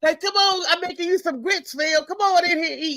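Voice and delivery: mock-sweet wife calling her man in; playing the wife, sweetly calling her husband in to eat. Voicing the wife calling him.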